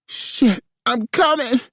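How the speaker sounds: loud, high climax cry. A narrator's reading. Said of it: "Eri sang loudly".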